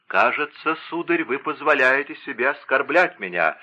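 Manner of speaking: usual speaking voice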